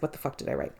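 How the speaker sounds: a real unvoiced whisper, aside; muttered to herself. Real, not acted. Host puzzling over her own handwriting, whispered aside. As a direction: whisper it under your breath while squinting at notes. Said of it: "this is attempting at reading my writing".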